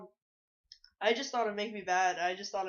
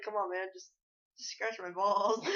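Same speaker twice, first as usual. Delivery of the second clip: slower, drawn-out mock coaxing; mock pleading. Retelling his prank as strangers laugh, mock pleading. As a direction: coax them, stretching out the last words.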